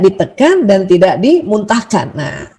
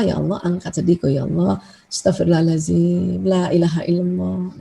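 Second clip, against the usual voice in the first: a soft, lower-voiced private prayer; 3 semitones lower, 6 dB quieter than usual. Shown as a demonstration. Teacher demonstrating the prayer for sadness, quietly. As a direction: pray it quietly under the breath. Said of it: "Makanya kita doa".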